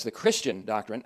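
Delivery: "Christian" leaned on in "The Christian doctrine"; stress on Christian. Shown as a demonstration. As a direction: give "Christian" the weight, then let "doctrine" settle. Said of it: "emphasizing the word Christian".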